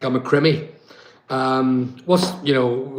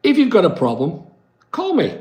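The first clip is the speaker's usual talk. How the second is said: inviting call; 4 semitones higher than usual. Retold or imitated. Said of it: "And I'm saying".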